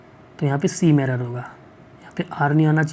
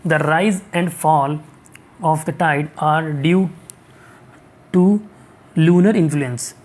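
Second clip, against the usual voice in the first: very slow reading aloud; much slower than usual. Shown as a demonstration. Teacher reads sentence slowly.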